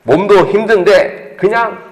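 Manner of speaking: a mild hint of a sweet-talking tempter; sweet tempting voice. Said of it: "막 달콤한 이야기 들려요".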